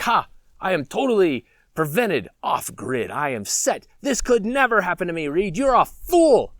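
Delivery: hint of a pompous, self-assured scoffer; mock smug prepper. Off-grid prepper scoffing at Reed, mock pompous. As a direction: scoff grandly, punching the final insult.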